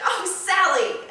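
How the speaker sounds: loud, high, drawn-out cry; mock outburst that shoots up high; man voice slipping high. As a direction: exclaim it as the pitch runs away from you. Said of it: "Oh, no, that's my voice again".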